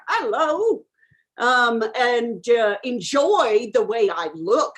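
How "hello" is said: a suave mock Cary Grant hello, rising at the end. Admiring himself in the mirror, suave mock greeting. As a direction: flirt with your own reflection.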